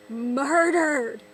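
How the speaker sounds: loud, drawn-out exclamation; mock outrage. Accusing Disney of ruining classics, loud mock outrage. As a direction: hammer the word out in mock horror.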